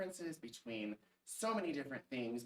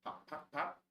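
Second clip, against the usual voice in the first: cork pops. Acted. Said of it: "He can sound like a cork".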